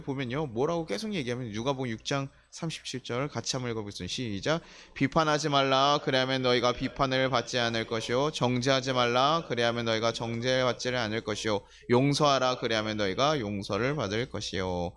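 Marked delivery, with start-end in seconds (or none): 4.9-14.9 scripture reading. Acted. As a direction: lead the congregation through the verse, word by word. Reads scripture aloud together.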